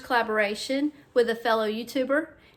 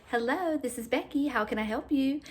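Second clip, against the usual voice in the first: bright, polite phone greeting; telephone voice; 3 semitones higher, 3 dB quieter than usual. Retold or imitated. Mom answering the work phone politely. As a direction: answer like a receptionist. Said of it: "I'm using my telephone voice".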